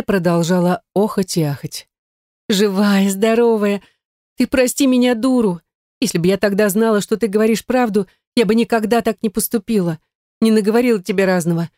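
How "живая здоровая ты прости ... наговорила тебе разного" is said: higher, tearful-sounding pleading gush; the sister begs Yana's forgiveness, gushing; gushing remorseful sister. Acted. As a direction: pour out the apology. Sister gushes apologies.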